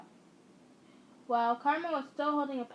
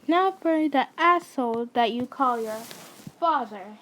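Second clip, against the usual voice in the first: menacing shout; 9 dB louder than usual. Acted. Gunman threatens abusive father.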